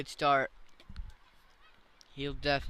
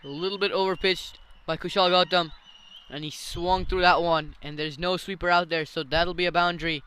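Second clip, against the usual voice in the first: excited commentary; 3 semitones higher, 6 dB louder than usual. Real, not acted. Boundary hit live call.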